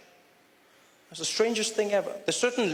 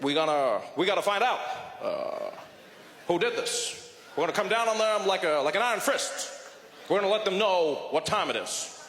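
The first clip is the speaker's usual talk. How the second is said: mock Obama. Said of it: "Barack Obama, he was there, he's like".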